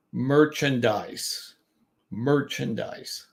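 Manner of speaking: slow "merchandise" with weight on "mer"; stress on first syllable. Shown as a demonstration. Teacher repeating an example word slowly, first syllable stressed. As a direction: draw out "MER" in "merchandise", then fall away. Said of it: "we emphasize the third syllable from the end".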